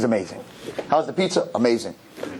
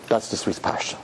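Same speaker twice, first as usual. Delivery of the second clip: usual speaking voice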